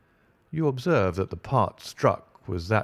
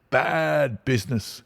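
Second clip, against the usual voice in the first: higher grumbling inspector voice; pompous inspector; 5 semitones higher than usual. Acted. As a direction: mutter it with self-importance. Inspector repeats phrase.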